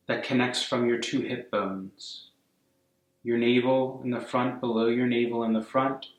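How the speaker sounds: calm, unhurried meditation guidance; guided meditation. Real, not acted. Yoga teacher guiding a class to soften and breathe, calm meditation voice. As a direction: ease them gently into stillness, phrase by phrase.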